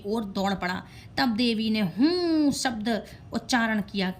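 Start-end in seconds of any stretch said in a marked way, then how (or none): 1.8-2.5 long drawn-out "हूँ" with pitch swelling upward; forceful "hoom" utterance. A narrator's reading. Goddess felling the charging demon with one syllable, a forceful drawn-out "हूँ". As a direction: stretch "हूँ" into one sustained, forceful hum. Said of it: "जोर से माँ ने सिर्फ हूँ शब्द उच्चारण किया".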